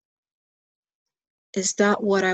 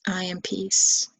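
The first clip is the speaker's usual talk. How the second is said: slow mantra; slower than usual. Shown as a demonstration. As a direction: let the words settle slowly like a mantra. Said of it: "you could even say the mantra".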